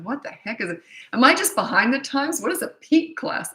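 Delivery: lightly acted confusion at a strange term; mock puzzled. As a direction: sound lost and behind the times. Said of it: "I thought".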